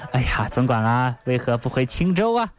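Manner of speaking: feigned concern of a two-faced chief; 假惺惺的关心. Acted. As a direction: ask solicitously while secretly pleased. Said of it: "宋江这是假惺惺的". (假装关切地询问)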